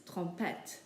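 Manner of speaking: TROMPETTE closing on a crisp T; sounded final T. Shown as a demonstration. Teacher repeating the word for learners, sounded T. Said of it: "so we pronounce the T's".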